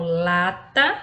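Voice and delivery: "lata" slowly, LA strong and "ta" light; stress on first syllable. Shown as a demonstration. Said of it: "temos uma sílaba tônica".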